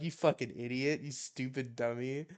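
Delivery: playful mock insult with a rising lilt; making fun. Teasing a newborn who has no idea, making fun. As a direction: tease a baby who cannot understand. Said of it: "like I'm making fun of him".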